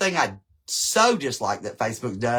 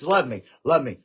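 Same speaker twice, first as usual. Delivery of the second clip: playful plea; 4 dB louder than usual. Real, not acted. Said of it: "Give me some little grace".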